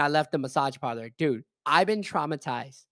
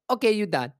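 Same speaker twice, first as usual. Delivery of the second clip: louder-edged, higher mock Chinese accent; imitating Chinese-accented old lady; 5 semitones higher, 3 dB louder than usual. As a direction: dismiss him in a put-on Chinese accent. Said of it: "slaps my forehead and goes".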